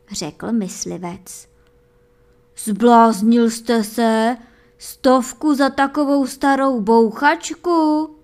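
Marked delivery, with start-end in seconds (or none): 2.6-8.1 miller shouting. A narrator's reading. Miller yells at the hunter over the price, loud and outraged. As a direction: bellow it at the hunter in disbelief. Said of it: "křičel mlynář".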